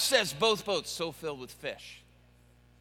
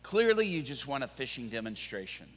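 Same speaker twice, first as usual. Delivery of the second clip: sarcastic Peter; 5 semitones lower than usual. Acted. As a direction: mutter it with weary sarcasm. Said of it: "and he's like".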